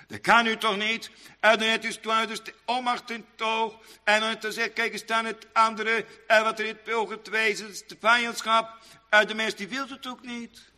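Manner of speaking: preaching. Real, not acted. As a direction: preach it in a high, steady intoning voice. Preaches in raised chant.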